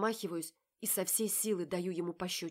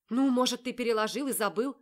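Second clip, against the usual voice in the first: louder and higher, exasperated; exasperated shout; 6 semitones higher, 11 dB louder than usual. A narrator's reading. Polly shouts at Marat in exasperation. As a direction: fling the question at him.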